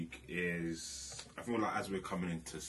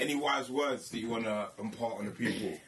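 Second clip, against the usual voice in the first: laughing; 4 semitones higher, 4 dB louder than usual. Real, not acted. Host asking through laughter.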